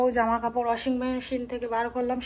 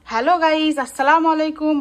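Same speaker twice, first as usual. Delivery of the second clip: put-on demo for a toddler; 3 semitones higher, 8 dB louder than usual. Shown as a demonstration. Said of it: "বলো".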